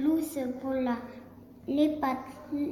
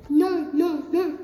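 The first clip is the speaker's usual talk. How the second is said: little pigs' refusal; 3 semitones higher, 7 dB louder than usual. A narrator's reading. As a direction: squeal it out like little pigs. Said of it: "répondirent Gaston et Léon".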